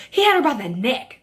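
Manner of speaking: a hint of an alarmed tattletale; mock accusing neighbor.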